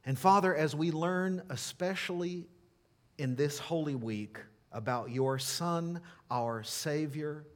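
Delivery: earnest, measured prayer in short phrases; unhurried spoken closing prayer; public prayer. Real, not acted. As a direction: pray aloud for the congregation, pausing between phrases.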